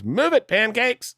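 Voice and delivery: high, drawn-out mock white-guy voice. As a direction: put on a squeaky, slow caricature of a white guy. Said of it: "in the best white voice ever".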